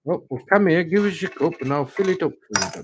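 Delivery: put-on a light, homely Yorkshire accent for a friend. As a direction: slip into a bit of Yorkshire as you offer to pour. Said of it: "I do the Yorkshire accent".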